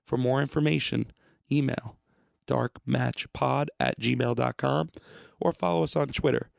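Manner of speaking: measured podcast promo read; announcer read over music. Real, not acted. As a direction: read out the show details clearly. Recorded show information read.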